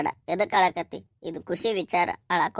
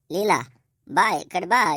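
louder, coaxing call to his wife; urgent calling; 5 dB louder, slower than usual. Acted. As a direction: call her over insistently. Husband calls crying wife over. (ಜೋರಾಗಿ ಕರೆಯುವ ದನಿ)

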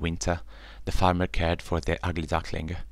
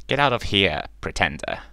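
clucking hen; 2 semitones higher, 4 dB louder than usual. Acted. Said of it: "clucked the, the hen".

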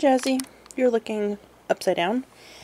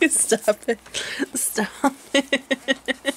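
helpless laughter between words; ticklish giggling protest; 4 semitones higher, much slower than usual. Real, not acted.

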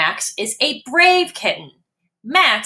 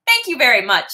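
polite kitten voice; 4 semitones higher, 3 dB louder, faster than usual. Acted. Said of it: "says Max".

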